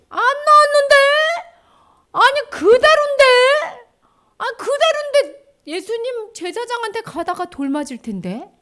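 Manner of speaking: high, squeaky-pitched questioning; baffled protest. Acted. Lepers protesting they are not healed yet, baffled. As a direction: object in high-pitched disbelief, then ease off.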